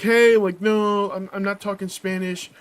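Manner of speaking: mock indignant outburst; retold pissed-off protest. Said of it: "all fucking pissed off".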